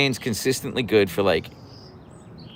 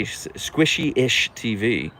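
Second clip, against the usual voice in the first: slow careful reread; 2 semitones higher, much slower than usual. Shown as a demonstration.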